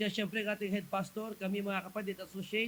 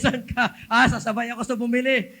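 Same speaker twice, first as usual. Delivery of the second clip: a louder, laughing back-and-forth; louder quoted exchange, laughing through it; laughing mock dialogue; 2 semitones higher, 7 dB louder than usual. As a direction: act out the chat with the driver, chuckling. Acted exchange with driver.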